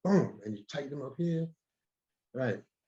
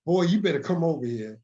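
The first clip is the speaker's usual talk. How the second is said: mock scolding teacher; 4 semitones higher, 4 dB louder than usual. Retold scolding from his teacher.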